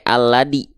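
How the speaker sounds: ALADI with a hard plain D; dal replacing zal. Shown as a demonstration. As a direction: say "aladi" with a d stop instead of dh. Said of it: "jangan sampai". ("aladi", zal salah dibaca dal)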